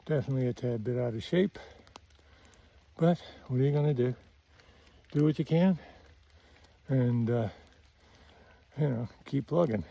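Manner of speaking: winded after a climb; slightly breathless from the climb; out of breath. Real, not acted. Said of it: "I'm a little winded".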